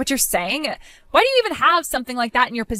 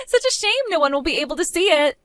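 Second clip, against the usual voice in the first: mocking laugh; 4 semitones higher than usual. Taunting bride over ruined dress.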